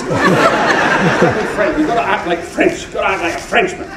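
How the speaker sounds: mentor's advice retold with a laugh; imitating Fulton, laughing. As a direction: hammer home the point while cracking up.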